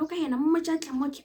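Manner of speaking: mom calling. Retold or imitated. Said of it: "Mara peng wa tlwaela".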